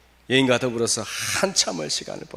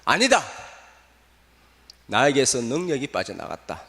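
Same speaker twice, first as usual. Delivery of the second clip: calling out; 4 semitones higher, 4 dB louder than usual. Acted. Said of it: "막 소리를 지르는 거예요".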